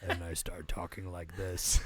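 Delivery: low, hoarse croak with voice gone; lost voice. Shown as a demonstration. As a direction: talk like your voice is shot from covid. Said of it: "where I've lost my voice to covid".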